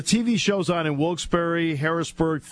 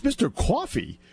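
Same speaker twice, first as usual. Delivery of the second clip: Trey's puzzled echo; 4 semitones higher than usual. Retold or imitated. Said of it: "you know how Trey talks".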